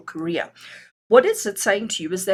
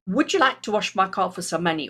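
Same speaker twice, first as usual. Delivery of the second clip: lightly voiced eager young man asking for work; a hint of a keen kid offering to wash cars; young man's voice. Reader voicing a kid offering to wash a car, lightly voiced young man. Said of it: "I'm talking like that because he's a young man".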